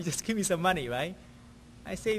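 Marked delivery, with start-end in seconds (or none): 0.0-0.9 repeating his demand through a laugh. Retold or imitated. Pastor retelling the money demand to church, laughing. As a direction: laugh while quoting him.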